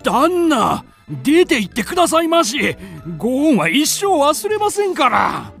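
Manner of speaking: wailing, insistent entreaty; desperate pleading. Acted. Servant imploring the guest to go away, desperate. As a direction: beg for all you are worth.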